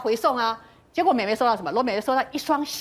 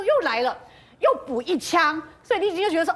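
usual speaking voice

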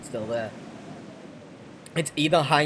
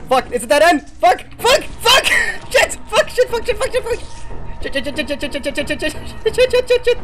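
frustrated swearing; 9 dB louder than usual. Real, not acted. Trapped at dead end in game.

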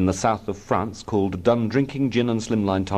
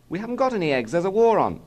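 high-pitched mother; Mummy's voice; 10 semitones higher, faster than usual. A narrator's reading. Mother explains the wartime egg shortage, Mummy's voice. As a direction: answer high, as the housewife.

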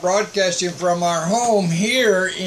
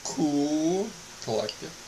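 slow, word by word, sinking softer; showily calm; 5 dB quieter than usual. Pretend. Preacher checking his new restraint, showily calm. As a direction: make a show of being cool and collected. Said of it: "Is that calm, cool, collective".

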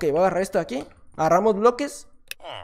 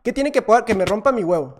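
usual speaking voice

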